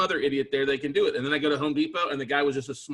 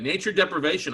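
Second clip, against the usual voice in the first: laughing as he says it; laughing echo; 4 semitones higher than usual. Real, not acted. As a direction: repeat the term with an amused laugh. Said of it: "oh, I don't doubt that".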